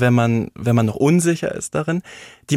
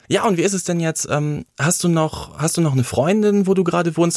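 higher-pitched, chatty small-talk question; retold casual questioning; 5 semitones higher than usual. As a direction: imitate a director casually probing. Acts director's casual private question. (nachgespieltes beiläufiges Nachfragen, höhere Stimme)

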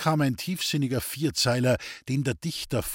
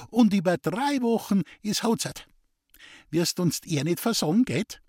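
put-on sly gossipy old woman; 7 semitones higher than usual. A narrator's reading. Scheming mother voiced in story.

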